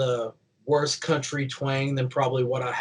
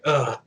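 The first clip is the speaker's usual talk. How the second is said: disgusted groan. Shown as a demonstration. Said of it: "Like, just like that".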